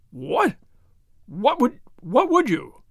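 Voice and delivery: a stammering, breathless "What would, what would you?"; flustered gasp. A narrator's reading. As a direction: sputter it out, caught off guard. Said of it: "His Excellency gasped".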